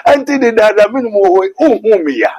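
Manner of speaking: a patient teacher chiding his disciple; Jesus answering. Retold or imitated. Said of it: "No, so".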